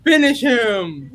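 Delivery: drawn-out mock game announcer; game announcer quote. Joking host over fallen friend, mock game announcer. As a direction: stretch it out like a fight announcer, amused.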